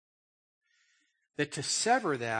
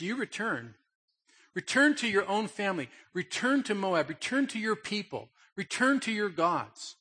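insistent, each return pressed higher; Naomi urging; 4 semitones higher than usual. Retold or imitated. Preacher voicing Naomi sending her daughters-in-law home, insistent.

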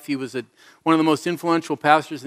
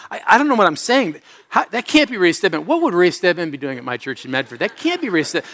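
self-conscious fluster. Retold or imitated. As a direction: replay a flustered inner panic, voice jumping up. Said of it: "I suddenly got really self-conscious".

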